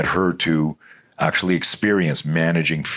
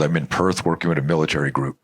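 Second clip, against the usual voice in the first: ordinary talk, nothing marked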